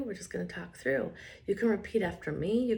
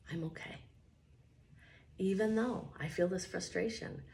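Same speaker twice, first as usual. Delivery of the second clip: affirmation demo; 4 dB quieter than usual. Shown as a demonstration. Tapping coach models affirmations for the viewer, soft and unhurried. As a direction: say each affirmation gently as the model. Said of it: "So it may sound like this".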